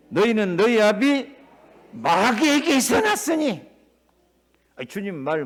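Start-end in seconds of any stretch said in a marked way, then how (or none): 0.1-3.6 higher, slow, deliberate condemnation; slow damning rebuke. Acted. Jesus condemning those who reject his words, slow and stern. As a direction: pronounce judgment word by word.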